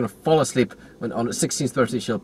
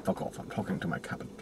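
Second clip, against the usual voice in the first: dismissive brush-off; 4 semitones lower, 13 dB quieter than usual. Acted. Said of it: "It's like".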